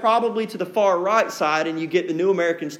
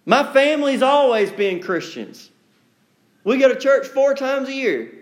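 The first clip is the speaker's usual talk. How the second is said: smug self-assurance; 5 semitones higher than usual. Pretend. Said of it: "genealogy might convince us".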